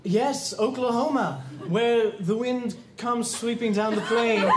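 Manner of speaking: slow, grandly intoned priest act; drawn-out pretend preacher voice; Father Flaherty. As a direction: ham up a clergyman reciting lyrics. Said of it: "This is Father Flaherty".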